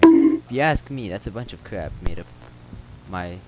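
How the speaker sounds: local telling a town legend in a lightly put-on accent; slightly acted storyteller; lightly voiced townsman. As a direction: spin the rumor as an in-game character.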